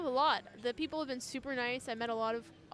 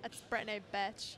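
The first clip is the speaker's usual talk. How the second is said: put-on valley girl; 4 dB quieter than usual. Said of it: "You gotta say it like a Valley girl".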